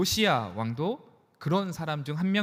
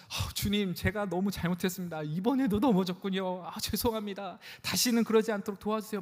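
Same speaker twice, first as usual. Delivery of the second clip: contrite prayer; 4 semitones higher than usual. Retold or imitated. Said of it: "막 이렇게 기도하십니까?".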